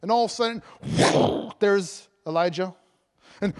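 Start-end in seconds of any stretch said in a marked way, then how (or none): 0.8-1.5 loud vocal whoosh; encounter sound effect. Shown as a demonstration. Preacher voices Elijah suddenly appearing, whooshing sound effect. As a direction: mouth a big burst of noise. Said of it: "that's my encounter sound effect".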